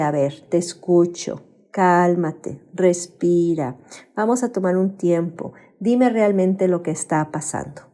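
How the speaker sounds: soft, slow soothing words; calm parent. Retold or imitated. A regulated parent calming a crying child, softly. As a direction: gently settle an upset child. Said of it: "Mamá y papá están tranquilos".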